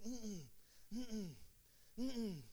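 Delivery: short, soft falling "mm-mm", repeated; wordless little no, slightly softened; imitated refusal hum. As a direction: imitate a kid quietly refusing. Boy refusing candy, imitated.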